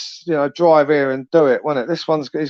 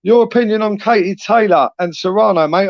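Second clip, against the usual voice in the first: calling out; 5 semitones higher than usual. Real, not acted. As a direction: hail him across the stream. Calling out to a guest.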